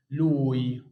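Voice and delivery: لوي with the lips rounded and the sound stretched; drawn-out lui. Shown as a demonstration. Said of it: "اقفل بقك وطول النطق شوية". (لوي ببق مقفول ونطق مطوّل)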